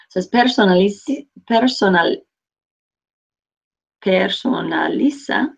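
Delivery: "personaliza" spelled out slowly; slow syllable by syllable. Shown as a demonstration. Teacher correcting herself, slowly sounding out "personaliza". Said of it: "Trying to add an extra syllable".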